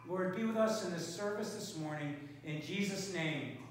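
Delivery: spoken congregational prayer, calm and steady. Acted. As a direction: pray aloud over the church. Opens prayer.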